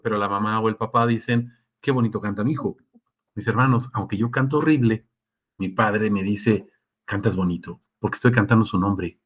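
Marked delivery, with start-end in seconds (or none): 1.8-2.8 tender parent. Retold or imitated. Parent softly praising child. 7.1-7.8 soft, lower, loving reassurance; tender father. Retold or imitated. God as father comforting.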